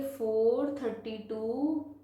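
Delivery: slow, spaced-out number reading; reading demonstration. Shown as a demonstration. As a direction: draw out "टू", pause around "decimal". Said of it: "इसको कैसे पढ़ेंगे".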